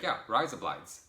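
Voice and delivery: mock Australian, obliviously agreeing; Australian man's accent. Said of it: "He's like".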